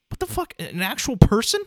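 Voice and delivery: jumps way up high in stunned disbelief; a squeaky, gobsmacked double take; shocked disbelief. Retold or imitated. Reliving seeing the horror figure as a kid, squeaky stunned disbelief. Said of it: "it's like".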